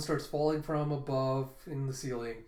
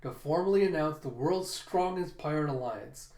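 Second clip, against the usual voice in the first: announcer voice; 3 semitones higher, 3 dB louder than usual. Acted. Bao Huang briefing Kaido on the festival schedule, lightly announcer-like. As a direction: rattle off the itinerary like a dutiful herald.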